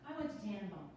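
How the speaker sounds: quick, bubbly, a little flustered; nervous newcomer rattling on; nervous chatty woman. Acted. The speaker reading her part.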